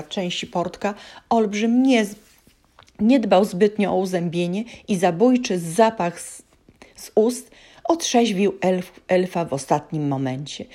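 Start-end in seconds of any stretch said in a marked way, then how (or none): 4.9-9.0 whispered aside. A narrator's reading. Narrator whispers.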